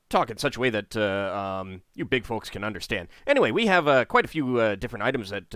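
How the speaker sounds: eager gnome tripping over words, lightly voiced; chattery, stammering gnome with sudden jumps in pitch; fast-talking Tinker Gnome. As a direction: ramble on as an excitable little gnome trader. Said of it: "they start speaking extremely fast".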